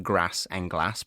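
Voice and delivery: "grass and glass" with short flat Scouse A; short northern vowels. Retold or imitated. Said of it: "So she just says".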